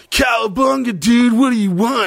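high, hammed-up surfer-dude greeting; Ninja Turtle character. Costumed pizzeria worker to late-night customer, hammed-up Turtle voice. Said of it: "full fucking Ninja Turtle suit".

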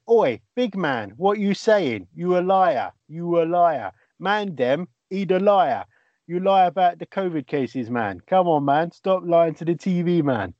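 mock street-gangster patter. Host quoting the lad harassing Chris Whitty, mock gangster. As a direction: imitate a teenage wannabe gangster, punching each phrase. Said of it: "he talks like a gangster".

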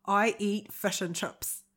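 slow Kiwi vowels on "fish and chips"; "I eat fish and chips" in a Kiwi accent; New Zealand accent. Pretend. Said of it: "Give us more".

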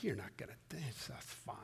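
soft, sly whisper of the serpent. Retold or imitated. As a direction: whisper it like a tempting snake. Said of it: "the serpent is like".

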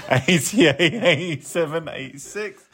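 counting through suppressed giggles; trying hard not to laugh; stifled giggles. Real, not acted. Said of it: "So I'm trying not to laugh".

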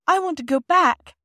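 put-on high, loud scared child voice; high frightened girl's cry; frightened plea. A narrator's reading. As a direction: plead to go back, scared. Phyllis frightened in tunnel.

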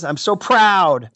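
slow, drawn-out mock choked-up pride; milk "I'm so proud." slowly like you're fighting tears, hammed-up; hammed-up teary slow pride; mock tearful pride. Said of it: "I'm emotional now".

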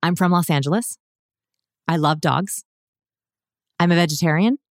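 statements rising at the end like questions; question inflection on statements. Shown as a demonstration. Demoing a liar's rising tone to the hosts. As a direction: end each claim going up, unsure. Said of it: "So it sounds like this".

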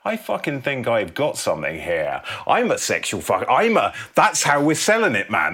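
high, eager rush of a sudden idea; excited epiphany. Acted. Elliot in the cinema, excitedly pitching to himself. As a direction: pump yourself up, the idea is landing.

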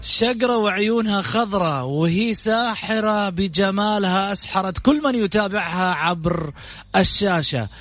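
showy announcer build-up over music; grand TV show host introduction; TV presenter intro. Acted. Host's dramatic guest introduction over music.

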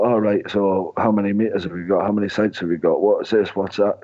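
a hint of a scripted cold caller; robotic sales caller. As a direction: rattle off questions like a robot. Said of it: "sound like a robot".

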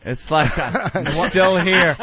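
slow, laughing drawl on still here; laughing at his own line. Real, not acted. Laughing at the joke about still trying.

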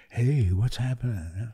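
laid-back, slow hippie greeting. Retold or imitated. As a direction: drawl it like a mellow hippie. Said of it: "was that your, like, hippie voice?".

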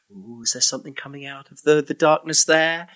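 lightly hushed spooky teasing; half-hearted ghost-story hush; mock spooky voice. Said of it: "they didn't do the whole".

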